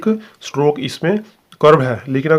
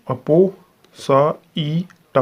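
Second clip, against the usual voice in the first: slow sounding out; much slower than usual. Shown as a demonstration. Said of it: "ये हमारा है पा".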